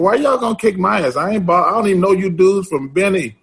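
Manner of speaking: why are you coming at me, high and incredulous; incredulous protest. Retold or imitated. Facing three strangers, he protests in disbelief. Confronting three guys at night.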